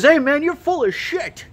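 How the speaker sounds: high, slow, sneering rival shop owner; imitating the owner's slow high jeer; mock angry owner. Shop owner mocks Mike on walking in, high and slow. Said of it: "walks into my store and says".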